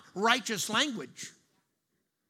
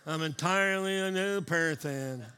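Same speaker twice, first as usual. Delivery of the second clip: meaning it; 3 semitones lower than usual. Shown as a demonstration. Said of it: "Say it like you mean it".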